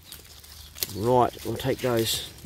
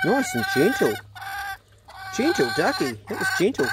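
higher, soothing treat talk; gentle coaxing; 8 semitones higher than usual. Real, not acted. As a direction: coax the duck to take it gently. Calming the duck for treat.

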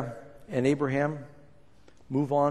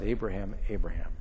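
lower, gentler calling of the name Abraham, twice; an angel gently stopping the father with his name said twice; soft urgent double call; 5 semitones lower than usual. Shown as a demonstration. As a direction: call "Abraham, Abraham" softly, falling low on the second. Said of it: "he says it twice".

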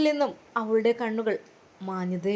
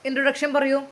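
repeated louder; 5 semitones higher, 4 dB louder than usual. A narrator's reading. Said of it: "വീണ്ടും അതാ പറയുന്നു".

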